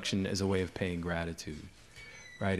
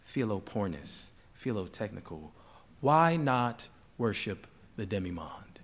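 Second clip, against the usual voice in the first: measured poetry recital with falling phrase ends; poem reading; slower than usual. Acted. Poet reads a colleague's poem of flowers to an audience, measured recital. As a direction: read verse phrase by phrase, with pauses.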